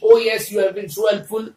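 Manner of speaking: slow, mock-grateful thanks; a slow, sarcastic oh yes. Shown as a demonstration. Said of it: "वही वाली कहानी".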